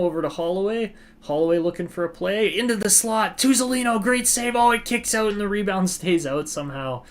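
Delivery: rising, quickening hockey call; play-by-play. Acted. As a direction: build the excitement as the play develops. Live play-by-play of the game.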